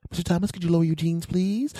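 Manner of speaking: high, quick sing-song request; imitated female doctor. Doctor asks the patient to undress, imitated high polite voice. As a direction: rattle it off in a put-on high doctor voice.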